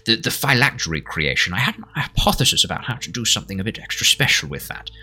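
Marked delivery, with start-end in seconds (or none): 0.1-2.6 high, eager burst; excited scientist. Acted. NPC pitch jump.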